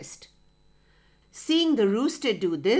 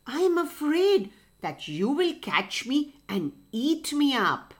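a lightly voiced wary rooster. Rooster in the tree politely refusing the fox, lightly voiced and wary. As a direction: rooster nervously refusing from his perch.

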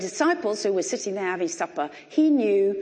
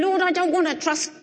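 frustrated prayer; 6 semitones higher, 4 dB louder than usual. Retold or imitated. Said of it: "I found myself praying".

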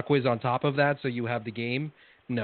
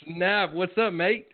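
higher-pitched mock Australian greeting; attempted Australian accent; 7 semitones higher, much slower than usual. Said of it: "he tries to do his, uh, Australian accent".

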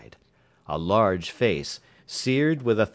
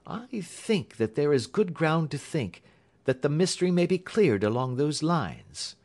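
measured, higher-pitched deductive voice; Holmes reasoning; 6 semitones higher than usual. Acted. Holmes explains his theory to Watson, measured reasoning. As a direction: lay out the theory point by point, pitched up.

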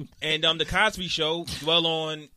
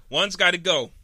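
game show host; 3 semitones higher, 5 dB louder than usual. Acted. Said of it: "I'm in my zone right now".

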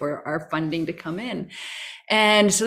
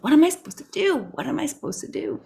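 demanding the sky; 9 semitones higher, faster than usual. Retold or imitated. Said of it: "throwing my hands up to the sky and demanding".

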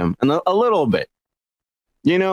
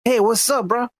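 higher, stereotyped Chicano greeting; mock Mexican-American accent; 6 semitones higher than usual. Joking that Mexicans always talk like this, mock Chicano accent. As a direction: do the exaggerated Chicano "bro" accent. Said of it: "you always talk like this".

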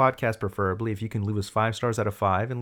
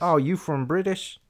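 higher-pitched, drawn-out curious question; mock surprise; 7 semitones higher, slower than usual. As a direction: react with hammed-up surprise. Acting the officer's surprised reply.

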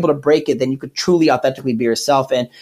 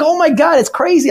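bubbly impression; 12 semitones higher than usual. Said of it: "she's, like, so bubbly".

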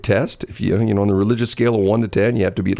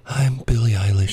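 hushed, whispery singer impression; a singer; 3 semitones higher than usual. Shown as a demonstration. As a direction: breathe the name out as a mock whisper. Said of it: "Every song, it's the same".

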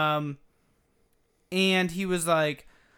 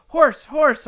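put-on toddler voice; 8 semitones higher, 9 dB louder than usual. Voicing toddler son excited.

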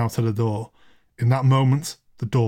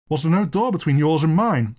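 mildly eager question, slightly raised; 4 semitones higher than usual. Acted. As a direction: ask with a touch of eagerness. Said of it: "said Anderson eagerly".

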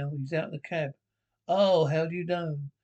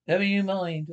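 loud retort; 3 semitones higher, 5 dB louder than usual. Acted. Woman passenger cuts in loudly.

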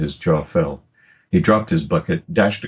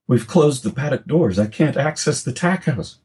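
high frantic protest; young son protesting in fear; boy arguing during the attack; panicked boy; 9 semitones higher than usual. Acted. Boy answers father in panic.

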